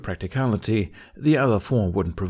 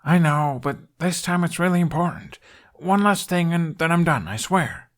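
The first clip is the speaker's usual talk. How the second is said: earnest plea; 8 semitones higher, 4 dB louder than usual. Acted. Hiccup pleads with Astrid.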